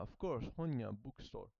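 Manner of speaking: ordinary delivery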